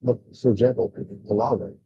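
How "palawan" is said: Palawan said puh-LAH-wan; accent the middle syllable of Palawan; correct Palawan. Shown as a demonstration. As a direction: Palawan with second-syllable stress. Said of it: "three-syllable word".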